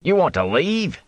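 high, startled watchman voice; exclaiming watchman. Acted. Watchman to travelers at night, high exclaiming voice. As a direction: blurt it out in disbelief. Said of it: "he exclaimed".

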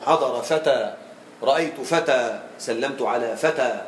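slow, long open aa ending "فتى"; pausal alif. Shown as a demonstration. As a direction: stop on the alif of "فتى", no tanween. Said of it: "الوقف بالألف مع التسكين".

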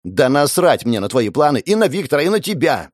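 furious, contemptuous outburst; angry yell. Acted. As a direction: spit it out in rage. Sofia yelling back at grandfather.

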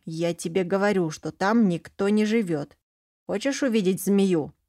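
put-on daring kid, egging her on; child's voice. Boy goading his sister into the bushes, lightly childlike. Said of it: "послышался детский голос".

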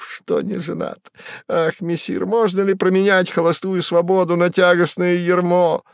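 the cat Behemoth boasts to Woland of his exploits; Behemoth's voice. A narrator's reading. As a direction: announce it with swagger. Behemoth rambles.

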